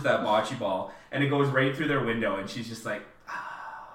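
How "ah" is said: soft, voiceless mock gasp; imitated quiet gasp. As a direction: let out a hushed, breath-only "ah". Acting character watching ball break window.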